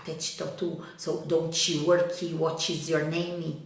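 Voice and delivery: English with a thick Brazilian learner accent; Brazilian-accented English, extra vowels on word endings. Shown as a demonstration. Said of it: "with this Brazilian accent".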